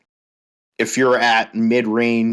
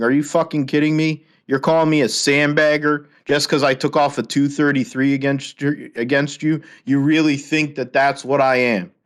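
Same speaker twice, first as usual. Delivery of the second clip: pitched-up, outraged disbelief; indignant retort; 4 semitones higher than usual. Retold or imitated. Retelling the bowling league fight, outraged disbelief. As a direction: fire it back, offended and incredulous. Retold confrontation, raised pitch.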